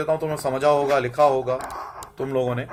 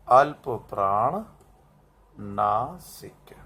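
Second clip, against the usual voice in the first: slow dictation; 6 semitones lower, 7 dB quieter, much slower than usual. Shown as a demonstration. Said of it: "सघोष".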